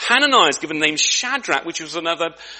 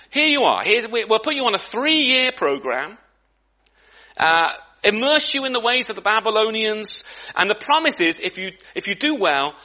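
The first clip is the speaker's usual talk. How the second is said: smiling recruiter pitch; 2 semitones higher than usual. Acted. Preacher voices smiling Babylonian recruiters.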